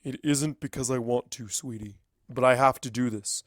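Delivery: soft, gentle fatherly reassurance; tender comfort. Acted. Father comforting his crying daughter, softly. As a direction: soothe her gently.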